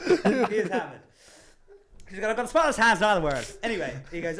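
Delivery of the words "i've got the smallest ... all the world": lightly voiced drunken boast, quick and louder; mock insistent little braggart, hurried; drunk dwarf. Drunk dwarf repeating his boast, mock insistent.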